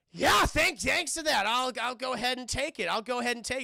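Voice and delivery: high, loud, stumbling fake casualness; mock a nervous agent failing to act normal; badly hidden nerves. Agent taking the card from the killer, badly hiding nerves. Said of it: "she does not have a good poker face".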